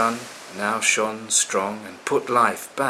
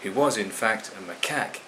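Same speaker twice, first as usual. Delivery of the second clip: plain reading voice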